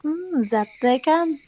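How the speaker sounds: put-on unhurried French-accented agreement. Opera house head turning to business, French accent. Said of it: "poor French accent".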